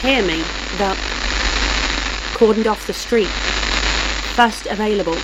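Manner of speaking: radio message breaking up in static; crackling headset. A narrator's reading. Butler calling through static to his boss, crackling headset. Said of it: "His headset crackled".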